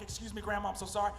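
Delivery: apologetic grandson. Retold or imitated. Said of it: "I'm like".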